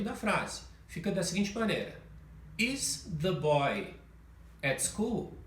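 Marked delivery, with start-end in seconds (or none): 2.6-5.4 slow question rising on school; slow rising question melody; question intonation. Shown as a demonstration. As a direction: ask it, lifting the last word. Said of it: "Com essa entonação de pergunta".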